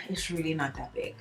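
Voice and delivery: soft, resigned aside; quiet reassurance. Real, not acted. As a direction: say "it's really not that big" under your breath after a sigh. Downplaying the keloid size.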